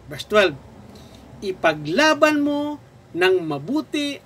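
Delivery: measured preacher reading a verse; scripture reading. Acted. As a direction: read it out phrase by phrase, with long pauses. Reads scripture aloud to congregation.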